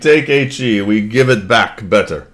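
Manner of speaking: put-on hammy Russian accent, proud comrade. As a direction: play a boastful Soviet in Russian accent. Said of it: "That's as good as my Russian accent gets".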